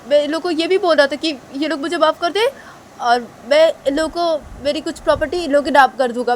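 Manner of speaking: desperate begging culprit; begging man. Acted. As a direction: grovel for forgiveness. Culprit begs forgiveness.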